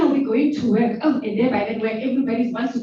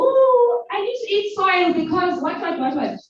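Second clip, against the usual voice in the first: mock craving mother; 4 semitones higher, 4 dB louder than usual.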